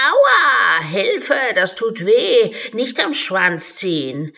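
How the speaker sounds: loud high yelp of pain; pained cries. Acted. The unicorn yelps as Alice pulls its tail. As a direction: cry out as your tail is yanked.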